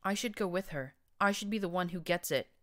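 a scrawny unicorn begging the brute to let him go; whining. Acted. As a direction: whine it like a cowardly stallion. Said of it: "the brown unicorn whined".

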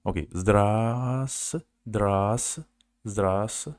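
zdras said slowly, the v dropped; slow syllable drill. Shown as a demonstration. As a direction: repeat zdras, no v sound. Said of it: "drilling the first syllable".

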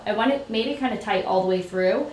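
talking with a pin in mouth. Real, not acted. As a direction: speak around pins held in lips. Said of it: "Sorry, I'm talking with a pin in my mouth".

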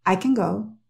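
accent on I, CAN a quick schwa; stress on I. Shown as a demonstration. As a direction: hit I, shrink CAN before GO. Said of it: "Está en el I".

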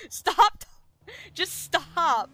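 loud exasperated stop; angry stop. Real, not acted. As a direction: cut chat off, annoyed. Snapping at chat helper.

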